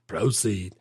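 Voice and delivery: echoed movie impression, very slow; slow, imitated Southern drawl; molasses-slow drawl. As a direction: stretch it out like molasses. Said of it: "like, freaking molasses".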